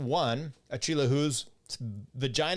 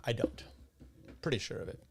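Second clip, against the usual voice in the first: sighed whisper; 3 semitones lower, 6 dB quieter, faster than usual. Real, not acted. Denies rosacea after long pause.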